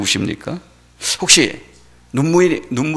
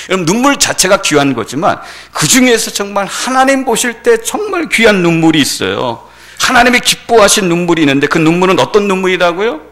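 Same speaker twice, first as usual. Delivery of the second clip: raised, emphatic sermon voice; earnest preaching; 7 semitones higher, 6 dB louder than usual. Acted. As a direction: preach it with rising conviction. (힘주어 강조하는 설교)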